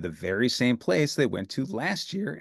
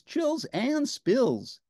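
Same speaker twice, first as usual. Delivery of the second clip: slow drawl; 12 semitones higher, much slower than usual. Acted. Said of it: "drawn out slowly".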